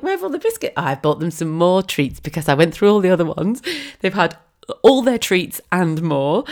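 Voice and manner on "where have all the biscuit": incredulous. Retold or imitated. Exasperated, high.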